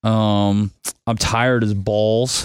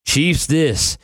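usual speaking voice

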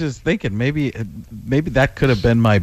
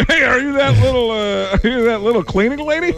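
much higher, laughing mock announcer; John Madden; 9 semitones higher than usual. The famous voice greets the caller, much higher, laughing. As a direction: bellow a friendly greeting through laughs. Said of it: "John Madden".

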